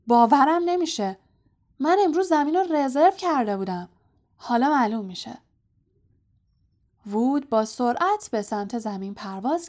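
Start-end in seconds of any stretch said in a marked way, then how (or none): 0.1-5.4 higher, louder indignant outburst; angry. A narrator's reading. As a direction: protest angrily with raised voice. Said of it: "وود با عصبانیت گفت". (با عصبانیت و صدای بلند)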